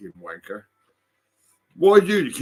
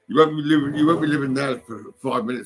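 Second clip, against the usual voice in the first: angry threat; 3 semitones higher, 3 dB louder than usual. Real, not acted. Threatening neighbour.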